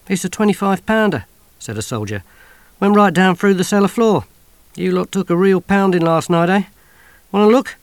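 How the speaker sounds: a breezy squaddie showing off; chirpy soldier. Acted. Soldier offering the sergeant a look, chirpy and loud. Soldier talks about the bomb.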